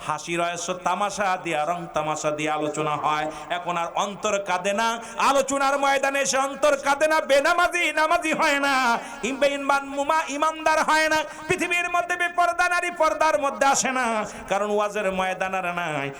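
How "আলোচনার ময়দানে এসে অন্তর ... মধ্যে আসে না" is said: high, driving litany; full-force preaching. Real, not acted. Preacher lamenting sermons that change nobody, high and fervent. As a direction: hammer out each lament on a raised pitch.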